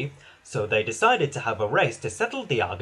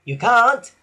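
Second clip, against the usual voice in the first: insistent; 7 semitones higher, 9 dB louder than usual. A narrator's reading. Race argument.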